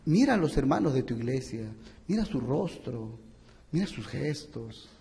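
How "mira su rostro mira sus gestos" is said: hushed. Acted. Preacher drops voice for emphasis.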